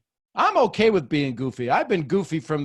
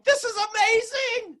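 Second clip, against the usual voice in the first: excited. Retold or imitated. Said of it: "We're all like going".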